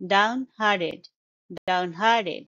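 "downhearted" with its t softened toward d, down-HAR-ded; soft d-like t. Shown as a demonstration. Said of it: "It's more like d in the end".

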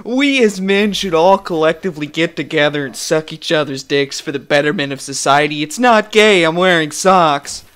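imitated incel, rising to an emphatic protest; mock incel type. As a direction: declare it as a mock incel manifesto. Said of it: "these fucking incel virgin type".

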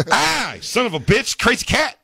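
high, pained mock yelp. Voicing Steve scratched by a cat, high yelp. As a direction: yelp like you just got scratched. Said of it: "Steve scratched by a cat".

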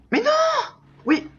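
very high, sharp disbelief; shocked cry. Real, not acted. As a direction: yelp of real dismay. Sudden death in the game. (cri de surprise indigné)

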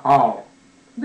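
あー as a careful long English R; effortful R attempt. Shown as a demonstration. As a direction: push out a long R-coloured あー. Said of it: "頑張って発音してるのが".

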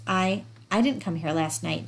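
stumbling over the first "I, I"; stammering. Acted. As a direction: trip nervously over the opening word. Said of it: "Jan stammered".

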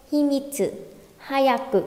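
"Himitsu" and "hayaku" short, as hi-mít-sư, ha-yak-ku; linked, not over-articulated. Shown as a demonstration. Teacher models for students, linked and not too distinct. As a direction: read "Himitsu, hayaku" quickly without spelling out each syllable. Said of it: "chỉ đọc như vậy thôi".

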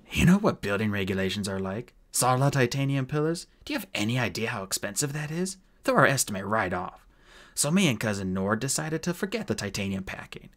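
lightly voiced shifty builder; a hint of a brazen rogue; unrepentant dwarf. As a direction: justify cut corners without remorse.

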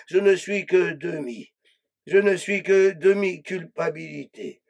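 hushed low recitation of a poem; incantatory litany. Acted. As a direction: intone each line like a grim prayer. Incantatory litany of self-description.

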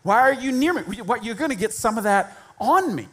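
high, mock-disgusted recoil; hammed-up grossed-out pullback; mock horror at someone unclean; disgusted Jesus. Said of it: "Jesus is like".

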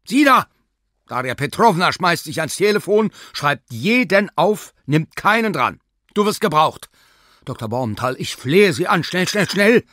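high, loud frantic urging; urgent pleading. Acted. Sina begs Doctor Bormental to hurry, frantic. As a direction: hurry him along in a panic.

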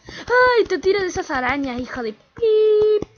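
loud, high frantic screams; terrified yelling. Real, not acted. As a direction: shriek at the spider in disgust. Screaming at spider. (gritos agudos y fuertes de asco y miedo)

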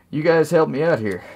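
douchey captain voice. Acted. Captain voiced smug, asking soldiers for help. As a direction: act smug and bossy. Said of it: "what's a good douchey voice".

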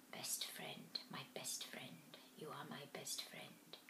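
slow fading whisper. A narrator's reading. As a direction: whisper it like a dying echo. Grieving whispered repetition.

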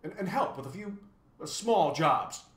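mildly tentative and polite. A narrator's reading. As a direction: slip the favour in delicately, with stammers. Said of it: "he inquired politely".

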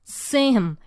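"see" pressed, "him" light; stress on see. Shown as a demonstration. Teacher marking the stress, "see" pressed. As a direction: hit "see" and let "him" fall. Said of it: "요렇게 누르시면 돼요".

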